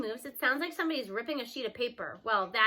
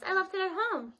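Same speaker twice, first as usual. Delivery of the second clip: put-on higher, nervous fib from a young boy; 7 semitones higher than usual. A narrator's reading. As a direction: lie quickly to cover up. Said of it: "Scoob gulps".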